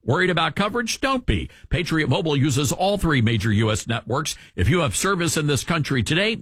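scripted radio sponsor read; polished, emphatic commercial delivery. Real, not acted. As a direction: sell it like a host-read radio spot. Reads a sponsor ad.

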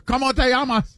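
fake Spanish accent. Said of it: "Why you saying it like you're from Osaka".

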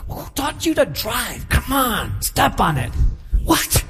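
mock road rage, mildly heated; aggravated driver. Irritated driver to the car ahead, aggravated mock griping. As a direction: act out an impatient driver griping at others. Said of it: "when I'm aggravated".

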